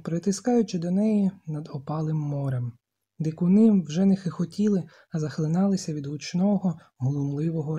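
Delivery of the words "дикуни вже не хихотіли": ordinary delivery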